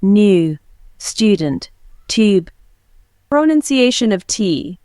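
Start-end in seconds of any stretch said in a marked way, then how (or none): 0.0-2.5 British accent, Y glide in "new, student, tube"; British accent: "student" as "styoodent"; British accent U demo. Shown as a demonstration. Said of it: "But in British English, we say".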